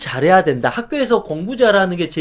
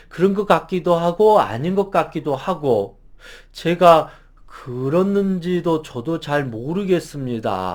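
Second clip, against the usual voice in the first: hesitant mumbling; 3 semitones lower than usual. Shown as a demonstration. Employee dodging the boss's question, mumbling unsure. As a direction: trail off as if unsure of yourself. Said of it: "우물쭈물".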